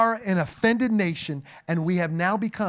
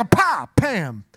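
trap snap noise; 4 dB louder than usual. Pretend. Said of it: "and they go".

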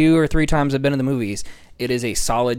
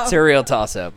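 laughing. Real, not acted. Laughing at a joke title.

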